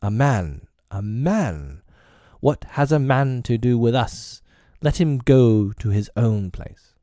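lightly voiced wolves crying out together; pack yelling. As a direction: shout it as the angry pack. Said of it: "more than half the pack yelled".

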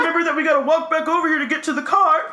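fast, laughing through the words. Real, not acted. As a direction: tease while laughing.

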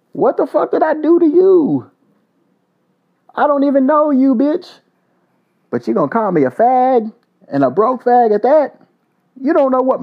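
furious shout at the troll; angry call-out. Real, not acted. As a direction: confront him like he's right there. Calling out Charlie directly.

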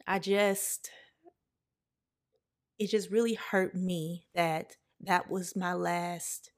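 fighting back tears mid-sentence; real tearful pauses. Real, not acted. Telling listeners about her late uncle, tearfully. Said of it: "I don't know why I'm so emotional today".

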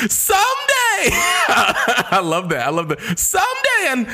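laughing it out; breaking up with laughter mid line. Real, not acted. Friend laughing hard at a song lyric.

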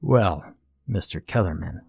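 lightly voiced smug judge, measured pauses; understated, ominous formality; formal contest master. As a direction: pronounce the verdict with mild disdain. Contest master pronounces the verdict.

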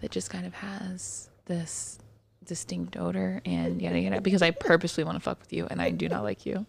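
mock-sweet and hushed, faking friendship to belittle; bullying voice. To a disliked coworker, a fake-kind condescending hush. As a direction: bring it down fake-friendly so the put-down stings. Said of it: "that's my bullying voice".

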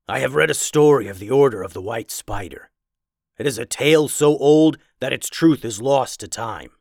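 a lightly voiced learned werewolf; scholarly werewolf.

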